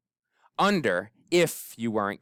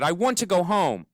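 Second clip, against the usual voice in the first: sad; 6 semitones higher than usual. A narrator's reading. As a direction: say it like a longing. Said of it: "William Spiver's sad, beautiful sentences".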